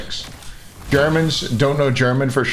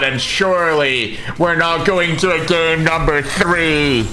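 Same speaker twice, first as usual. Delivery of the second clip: live caster slowing and lifting into the big call; esports play-by-play. Real, not acted. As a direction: build from steady calling to stretched, rising excitement. Live play-by-play, building to a drawn-out climax.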